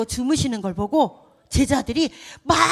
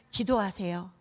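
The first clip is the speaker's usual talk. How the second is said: usual speaking voice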